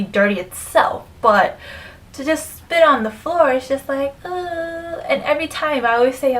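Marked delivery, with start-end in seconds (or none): 4.2-5.0 drawn-out, higher, soft "uh" of disgust; grossed-out groan, held and quiet. Retold or imitated. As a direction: let out a long, quiet ugh. Disgusted noise at spitting on floor.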